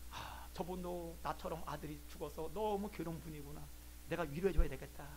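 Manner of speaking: low, soft musing aloud; hushed inner thought. Retold or imitated. Professor pities a fellow bereaved father, hushed musing. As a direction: think it aloud with quiet sympathy.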